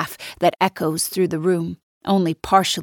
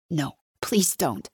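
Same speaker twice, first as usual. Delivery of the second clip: quiet pleading; 6 dB quieter, slower than usual. Acted. Millie begging not to call police.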